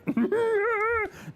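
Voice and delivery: long, high held cackle; high drawn-out laugh. Real, not acted. Streamer asked for a Yoda accent, high drawn-out laugh.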